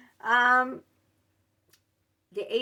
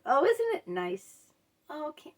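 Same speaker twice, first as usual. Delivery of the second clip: mock sweet; 6 semitones higher than usual. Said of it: "they say it so sweetly and nicely".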